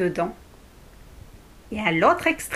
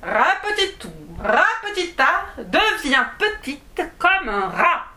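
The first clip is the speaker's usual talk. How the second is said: magic incantation; 4 semitones higher than usual. Acted. Dwarf casting a spell.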